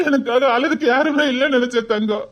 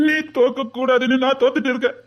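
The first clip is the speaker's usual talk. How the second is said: tearful confession. Acted. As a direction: voice thick with held-back tears. Confessing his defeat, near tears. (கண்ணீருடன் ஒப்புக்கொள்ளல்)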